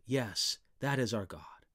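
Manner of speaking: a soft, breathy whisper of awe; whispered aside. Real, not acted. Preacher to the congregation about God, whispered. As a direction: drop to a hushed whisper for the congregation. Quiet aside after the quote.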